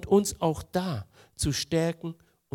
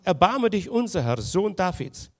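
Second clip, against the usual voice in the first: crying out; 4 semitones higher, 5 dB louder than usual. Acted. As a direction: cry out to Jesus for mercy. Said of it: "schrien und sprachen".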